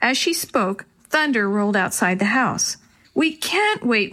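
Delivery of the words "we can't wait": higher-pitched urgent plea; mildly acted child-like insistence; pleading. A narrator's reading. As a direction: plead with them not to hold back. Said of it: "Willie pleaded".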